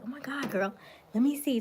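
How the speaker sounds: put-on hamming up a girlfriend fawning over a friend; gushing girlfriend talk. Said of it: "we talk like this all the time".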